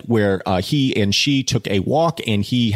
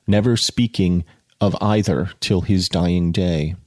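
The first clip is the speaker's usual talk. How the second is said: measured audiobook reading; literary narration with pauses between phrases; story narration. A narrator's reading. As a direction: read the novel aloud with deliberate phrasing.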